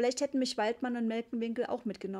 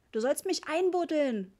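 high, loud, drawn-out demand; bellowing child; 6 semitones higher, 5 dB louder than usual. A narrator's reading. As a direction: voice a small boy bellowing an order. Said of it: "brüllte Richie". (lautes, gedehntes Brüllen eines Kindes)

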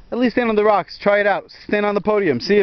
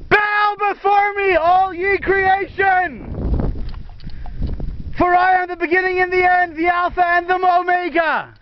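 booming god voice; 9 semitones higher than usual. Pretend. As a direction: proclaim like an almighty deity. Mock God proclaiming from rocks.

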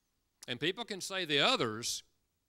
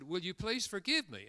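pleading request; 6 semitones higher than usual. Shown as a demonstration. A mother gently asking her daughter's forgiveness. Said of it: "the one I just illustrated".

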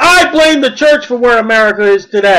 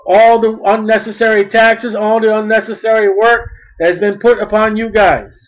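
gentle royal speech; 3 semitones lower than usual. Acted. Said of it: "the wise men were saying".

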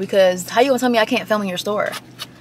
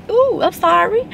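mock apology; 9 semitones higher, slower than usual. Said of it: "people start".

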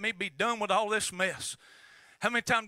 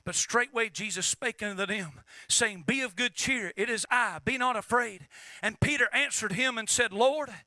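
scripture reading. Acted. Reads scripture aloud.

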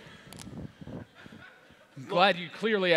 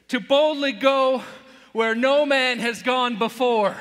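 starship captain; 4 semitones higher, 4 dB louder than usual. Acted. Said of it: "what I always say".

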